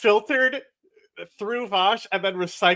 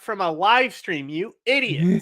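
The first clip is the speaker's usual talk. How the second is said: higher-pitched indignant scolding; exasperated rant; 4 semitones higher, 4 dB louder than usual. Real, not acted. Host corrects streamers in the clip, exasperated. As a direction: hammer the point at fools.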